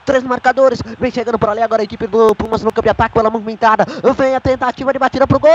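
rapid radio commentary; play-by-play. Acted. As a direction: rattle off the play live. Live play-by-play.

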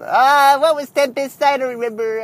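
hammed-up forgetful old man. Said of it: "that was my old man voice".

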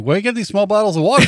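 high-pitched incredulous question; mock complaining customer. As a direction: whine it like a puzzled customer. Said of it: "people are like".

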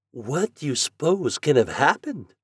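plain reading voice

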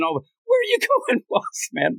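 high, rushed taunting bully, dropping at the end. Retold or imitated. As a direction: jeer quickly like a schoolyard bully. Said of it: "The bully voice".

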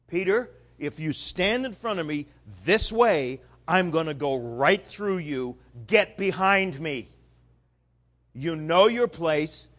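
Jesus setting Peter straight, firm; firm rebuke. Retold or imitated.

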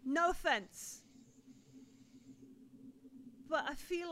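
subdued confiding. Acted. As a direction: speak softly, as if confiding. Game master voices woman confiding.

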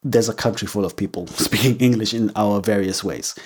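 adamant retort. Retold or imitated. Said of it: "I have to be adamant and say".

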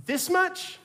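high, laughing little question; giggling child question. Retold or imitated. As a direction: ask it like a giggling toddler. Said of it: "he does this".

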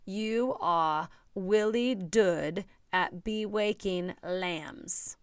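put-on slow little-kid lisp, "Willie Dood at be waking lambs"; child's mispronunciation. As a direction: toddler mangling "You are Willie Dood at be waking lambs". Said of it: "I always type the way they talk".

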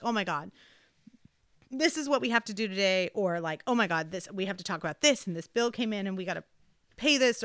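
imitating a partner dumping tasks first thing; frazzled rush. Partner piling morning chores on her, frazzled and rushed.

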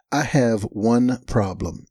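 put-on slow, careful Chinese accent; a mild put-on Chinese accent, measured. Exchange student stating her complaint, mild Chinese accent. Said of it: "forgive my accent".

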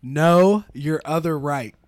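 dad voice. Retold or imitated. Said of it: "Dads love saying".

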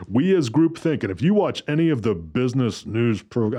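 words pushed through clenched teeth; through gritted teeth. Real, not acted. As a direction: say it with your jaw clenched tight. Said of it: "I'm doing this through gritted teeth".

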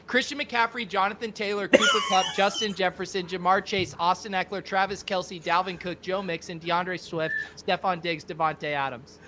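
booming stage introduction; announcer voice. Acted. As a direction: draft pick announcer reading names. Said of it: "do your announcer voice first?".

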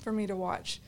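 breathless, gasping between words; talking while short of breath. Real, not acted. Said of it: "sorry, let me catch my breath for a second".

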